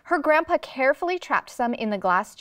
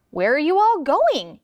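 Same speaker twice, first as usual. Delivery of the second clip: higher, louder storybook call; 5 semitones higher, 5 dB louder than usual. A narrator's reading. Man on the shore sees the commotion, calling out. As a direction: call out across to the runners. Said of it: "he called out".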